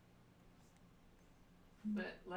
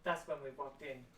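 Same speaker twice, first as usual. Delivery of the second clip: noir detective; 4 dB louder than usual. Pretend. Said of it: "I wrote it in a noir style".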